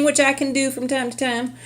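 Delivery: high-pitched playful Southern twang; Southern accent. Pretend. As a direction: slip into a put-on Southern US accent. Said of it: "I do that weird accent".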